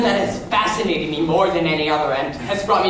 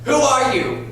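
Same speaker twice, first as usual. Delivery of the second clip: bewildered inner voice; 7 semitones higher, slower than usual. Retold or imitated. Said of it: "think to yourself".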